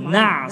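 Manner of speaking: "Na" with the voiced throat sound flowing on; flowing ain. Shown as a demonstration. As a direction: let Na run into a sustained ain. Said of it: "suara mengalir". (Na dengan suara mengalir)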